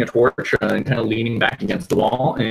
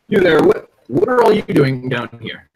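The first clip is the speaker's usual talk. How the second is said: guard's challenge; 3 semitones higher, 5 dB louder than usual. Acted.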